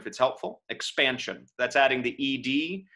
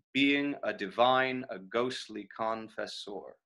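slow measured "Being a divine", softer on "confessor"; elided scansion; 3 semitones lower, 6 dB quieter, slower than usual. Shown as a demonstration. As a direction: beat out the line with "Being" elided. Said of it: "If you elide it".

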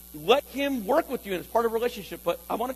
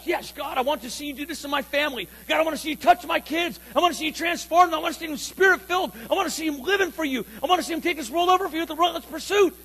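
higher and quicker, building with each "I want to see"; fervent prayer; 5 semitones higher, faster than usual. Pretend. Pastor modeling a bold prayer for the kids, fervent. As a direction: pray it with rising fervor.

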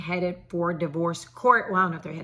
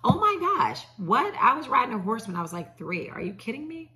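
amazed looking back; 4 semitones higher than usual. Retold or imitated. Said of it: "I look back now and go".

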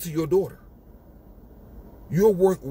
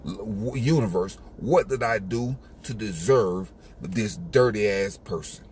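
the dog complaining, lower and quicker; lower, fast grumbling dog voice; 7 semitones lower than usual. Retold or imitated. The dog complains about its owner, low and fast. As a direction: grumble like a fed-up dog at a faster pace.

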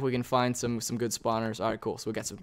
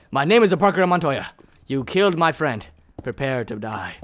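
louder hammed-up duelist line; mock vengeance vow; 3 dB louder than usual. Player again vows revenge on a creeper, hammed up. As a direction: declaim the revenge vow playfully. Inigo Montoya parody again.

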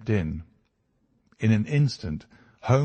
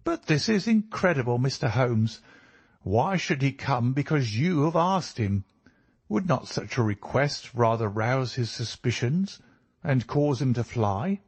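lightly voiced inspector, higher and questioning; higher-pitched, doubting protest; incredulous inspector; 5 semitones higher than usual. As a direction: question it in mild disbelief.

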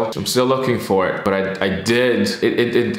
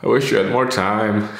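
tearful. Real, not acted. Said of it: "before I cry even more".

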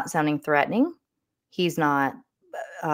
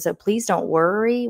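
mildly exclaimed, slightly higher reassurance; exclamatory; 4 semitones higher than usual. Retold or imitated. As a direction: read it out with a light exclamation mark. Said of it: "with an exclamation point".

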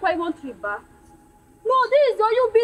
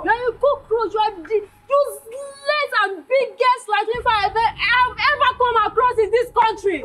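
crying insult; 4 semitones higher than usual. Acted.

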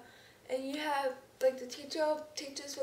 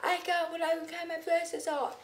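loud, high indignant protest; 5 semitones higher, 6 dB louder than usual. Retold or imitated. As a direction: insist hard, annoyed. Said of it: "that kind of makes me mad".

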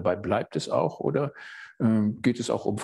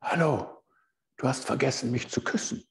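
toad calling from the pocket; 5 semitones higher than usual. A narrator's reading. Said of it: "hört es aus seiner Tasche".

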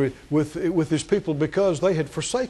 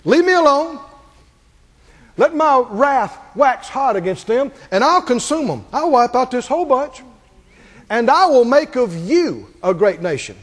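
loud, heavy divine anger, higher; wrathful God; 4 semitones higher, 4 dB louder than usual. Retold or imitated. God threatening to consume his people, loud and wrathful. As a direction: thunder it like a judge passing sentence. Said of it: "God's talking to Moses".

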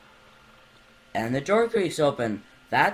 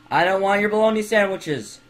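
mock protest; 7 semitones higher, 7 dB louder than usual. Protesting game character.

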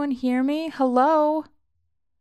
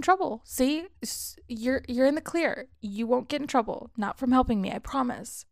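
a touch higher, urgently pleading with stammers; desperate pleading; 4 semitones higher than usual. Acted. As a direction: beg them to trust you, voice catching. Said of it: "couldn't hide the desperation in my voice".

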